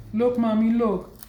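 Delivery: put-on a high, childlike plea to her mother; high childlike voice showing mommy her cuts; little girl pleading. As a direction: imitate her eight-year-old self pleading, pitched high.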